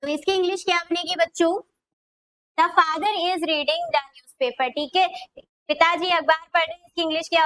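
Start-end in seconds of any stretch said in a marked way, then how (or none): 2.6-4.7 very slow, every word stretched apart; slow dictation. Shown as a demonstration. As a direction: say it slowly so children can write it. Teacher dictating English sentence.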